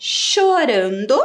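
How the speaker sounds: Chorando said slowly and clearly, syllable by syllable. Shown as a demonstration. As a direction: draw out Chorando for the class. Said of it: "quais palavras ... começam com a letra C".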